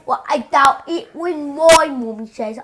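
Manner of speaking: mock British accent. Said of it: "in a British accent".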